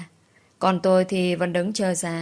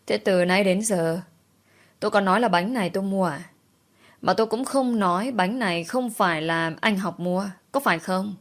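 calm reply. Acted. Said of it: "điềm tĩnh đáp".

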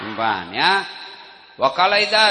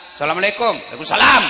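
firm wife; faster than usual. Acted. Wife answering her husband's phone call, firm and curt. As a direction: answer curtly, no softness. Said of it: "Coba kau tegas".

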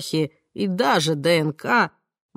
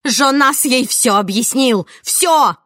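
higher, louder gasping outcry; breathless shout; 6 semitones higher, 5 dB louder, slower than usual. A narrator's reading. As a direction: cry it out, out of breath. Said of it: "задыхаясь, выкрикнула Амандина".

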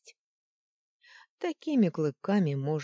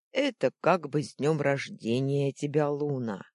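chuckling; 5 dB louder than usual. Acted. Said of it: "хохотнул Лунфич".

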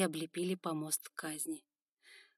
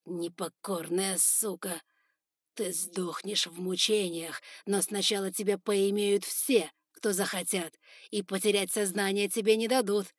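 cruel threat; 5 dB louder than usual. Acted. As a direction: savour every threat. Lord threatens the captive.

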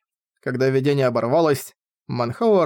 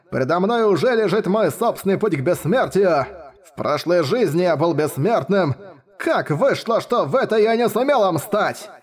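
put-on frenzied old man; 2 semitones higher than usual. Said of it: "яростно закричал старик".

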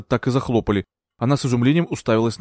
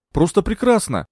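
"просто прекрасно" lifted higher with glee; a gleeful "просто прекрасно", pitched up; delighted; 8 semitones higher than usual. A narrator's reading. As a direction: savour "прекрасно", gloating. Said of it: "обрадовалась Маргарет".

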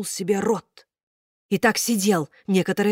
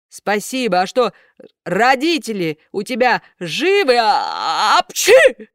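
a hint of gruff puppet master; 3 semitones higher, 6 dB louder than usual. A narrator's reading. Karabas asks, then sneezes.

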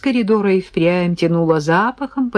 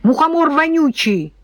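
put-on angry child insult; 9 semitones higher than usual. Девочка обзывает деда.

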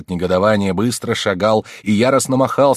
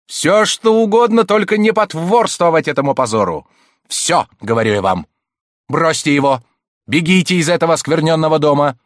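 commanding shout; 8 semitones higher, 7 dB louder than usual. A narrator's reading. Abbé ordering her to flee.

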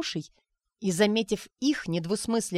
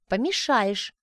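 loud sharp exclaim; 3 semitones higher, 4 dB louder, slower than usual. Acted. Arina and Anton exclaiming to stop Sonechka. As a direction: cut her off at once. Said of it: "одновременно воскликнули Арина и Антон".

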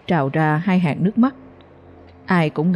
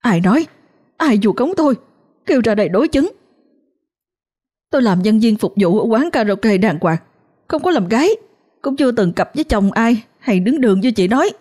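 indignant outburst; 5 semitones higher than usual. Acted. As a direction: defend yourself hotly. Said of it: "không nhịn nổi nữa".

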